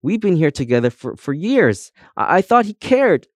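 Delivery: high, stammering tearful voice; sobbing. A narrator's reading. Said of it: "sobbed Comb".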